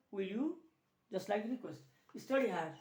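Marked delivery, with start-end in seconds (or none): 0.1-0.6 "will you" rising at the end. Shown as a demonstration. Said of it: "For rising tone".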